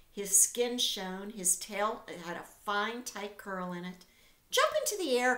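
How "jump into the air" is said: higher, louder cry; cried out. A narrator's reading. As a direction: call the command across the yard. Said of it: "cried Charlotte".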